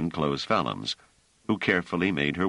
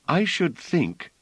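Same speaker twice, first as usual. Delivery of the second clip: higher, slow, firm woman's voice; Bliss, firm; 13 semitones higher, slower than usual. A narrator's reading. Bliss overruling Treves about stepping out, firm and high. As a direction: lay down the point firmly as Bliss. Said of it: "said Bliss firmly".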